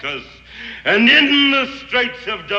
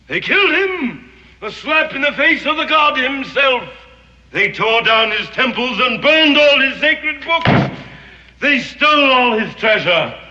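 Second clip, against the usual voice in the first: rising indignation; 5 semitones higher, 3 dB louder than usual. Acted. Villain recounts Spanish sacrilege.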